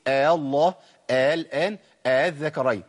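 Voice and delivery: second hamza softened into a glide in آ الله, آ الآن; eased hamza. Shown as a demonstration. Teacher showing the first option, tas-hil on all three words. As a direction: slide from آ into الذكرين without a second catch. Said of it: "تسهيل قلنا عليه خلاص".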